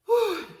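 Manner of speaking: high "whew" to hold off tears; steadying exhale. Real, not acted. Vlogger composing herself for viewers, steadying exhale. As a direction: blow out the urge to cry. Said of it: "Try not to cry".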